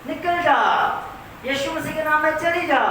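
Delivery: pastor orders the evil spirit out, voice climbing; pastor rebuking a spirit. Retold or imitated. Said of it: "वो कहते हैं".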